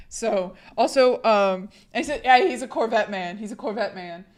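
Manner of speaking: raspy voice from a sore throat; hoarse sick voice. Real, not acted. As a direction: talk through laryngitis, hoarse. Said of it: "I'm just sick".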